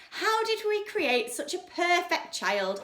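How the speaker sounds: high, slow gushing mother; mama gushing over her daughter; adoring mama. A narrator's reading. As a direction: marvel at the child. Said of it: "asked Mama".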